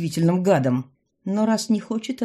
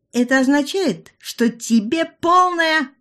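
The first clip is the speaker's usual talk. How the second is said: mock solemn verdict; 9 semitones higher, 5 dB louder, slower than usual. A narrator's reading. Heroine starts rude verdict.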